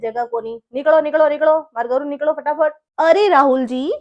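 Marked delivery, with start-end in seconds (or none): 0.7-2.7 louder, insistent get-out command; angry order. Acted. Husband orders his mother-in-law out of the house, angry. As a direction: drive her out of the house.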